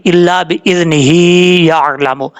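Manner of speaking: बिइज़्निही carried straight into याअलमु; joined recitation; recited without pausing. Shown as a demonstration. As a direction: read the phrase through without a stop. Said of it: "इस तरीके से पढ़ा जाएगा".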